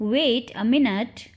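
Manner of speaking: measured, slowed-down phrase; slow model repeat. Shown as a demonstration. Teacher repeats the phrase for learners, slowly. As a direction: say it slowly so learners can follow.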